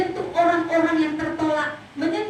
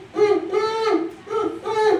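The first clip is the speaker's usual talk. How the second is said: mock sobbing; 6 semitones higher, slower than usual. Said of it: "itu saya nangis".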